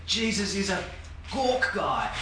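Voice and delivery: softened, imitation game whisper; mock whisper. Anita passing the misheard message to Jordan, mock whisper. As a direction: hand on the garbled message quietly. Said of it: "she then whispers to Jordan".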